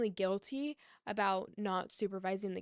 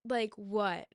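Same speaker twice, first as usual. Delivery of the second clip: falling, deadpan "what"; flat disbelief. Real, not acted. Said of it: "was telling me that I need to be okay".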